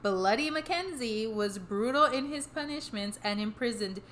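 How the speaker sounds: measured podcast read-aloud of history; scripted history narration. A narrator's reading. Telling the co-host the history behind the hauntings, measured narration. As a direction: read the history out steadily, phrase by phrase.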